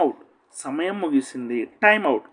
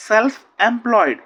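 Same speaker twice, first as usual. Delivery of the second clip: Self employed stretched out very slowly, Self loud; drawn out for learners to copy; very slow classroom model; slow model reading; 4 semitones higher, 5 dB louder, much slower than usual. Shown as a demonstration. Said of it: "teacher models the phrase slowly".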